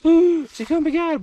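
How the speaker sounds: high-pitched, drawn-out excited ooh; squealed, slowed-down mock excitement; retold excited reaction. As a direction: re-enact your delight, way up high. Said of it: "I was like".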